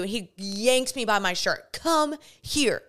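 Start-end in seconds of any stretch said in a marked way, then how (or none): 1.7-2.8 retold police order. Officer yanks her, orders her.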